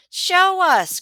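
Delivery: high, loud eager shout; cries out. A narrator's reading. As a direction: call out excitedly. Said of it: "cries Sam".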